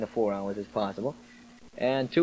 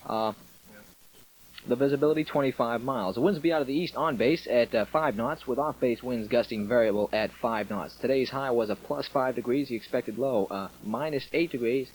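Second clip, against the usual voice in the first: louder on-air weather read; upbeat military radio host; 3 dB louder than usual. Real, not acted.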